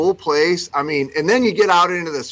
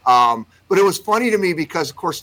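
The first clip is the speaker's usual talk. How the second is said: ordinary delivery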